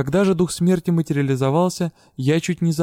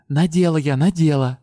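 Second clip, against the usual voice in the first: exasperated; 3 dB louder than usual. A narrator's reading. Heroine snaps back, annoyed.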